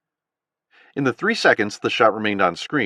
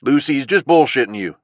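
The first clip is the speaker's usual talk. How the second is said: southern drawl; 4 semitones higher, 5 dB louder than usual. A narrator's reading. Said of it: "the owl said".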